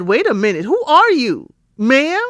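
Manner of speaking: incredulous. Retold or imitated. Recapper reacts to rude client.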